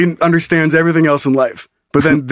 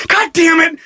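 mock frustration; 11 semitones higher than usual. Robber frustrated.

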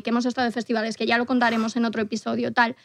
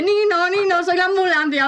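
mock siren voice; 6 semitones higher than usual. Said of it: "Te dice".

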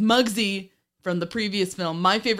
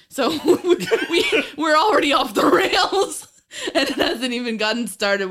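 laughing through words; 8 semitones higher, 7 dB louder than usual. Real, not acted. Laughing while recapping the movie.

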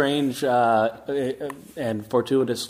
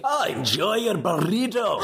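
slow, lightly put-on angel voice; a hint of Castiel; Castiel read; 5 semitones higher than usual. Shown as a demonstration. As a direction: say it slowly like a solemn angel. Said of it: "could you give us a Castiel read".

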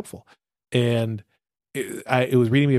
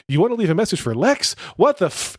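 voicemail greeting; 6 semitones higher than usual. Retold or imitated. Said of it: "it said".

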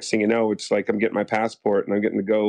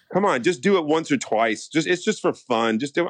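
higher-pitched imitation of cajoling; mock coaxing; 5 semitones higher than usual. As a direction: coax someone reluctant, lightly acted. Photographers coax the reluctant actor.

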